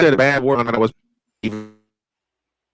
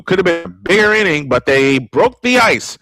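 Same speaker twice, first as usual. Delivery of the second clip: radio baseball announcer calling the game; steady play-by-play announcer voice. Acted. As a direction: call it like a ballpark broadcaster.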